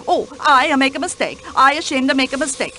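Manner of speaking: light mock Swedish accent, broken English. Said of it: "in that bizarre accent of hers".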